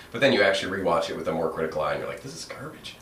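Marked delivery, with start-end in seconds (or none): 2.2-3.0 disgusted verdict. Retold or imitated. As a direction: dismiss it with a sneer. Critical rewatch verdict.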